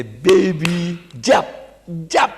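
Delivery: coaxing father. Retold or imitated. Father coaxing child to jump.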